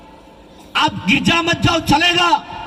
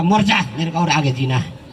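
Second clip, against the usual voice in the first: wife refusing; 8 semitones lower than usual. Retold or imitated. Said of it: "बोलेगा".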